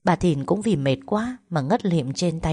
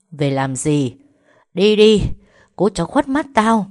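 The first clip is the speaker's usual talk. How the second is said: a sudden furious yell, higher and louder; angry yelling; 3 semitones higher, 6 dB louder than usual. A narrator's reading. Mad mother yelling at her daughter to get out. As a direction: lash out and drive her off.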